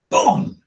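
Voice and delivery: boom sound. Shown as a demonstration. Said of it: "make the boom sound amplifies it".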